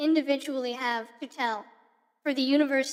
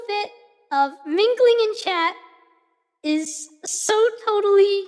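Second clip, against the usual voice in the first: put-on bubbly valley girl, stretching every totally. Shown as a demonstration. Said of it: "I don't have to talk like that anymore".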